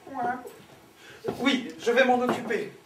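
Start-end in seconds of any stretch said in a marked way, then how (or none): 0.0-0.4 «coin» cancané, un peu plus haut; imitation de canard. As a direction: refaire le canard à la demande. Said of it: "pour faire le canard". (voix de canard)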